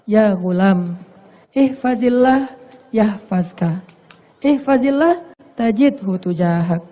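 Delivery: lightly softened, measured hadith recital; a touch of gentle instruction; changed, gentler tone. Shown as a demonstration. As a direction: recite it slowly as mild counsel to a boy. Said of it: "begitu ganti nada, berubah nada".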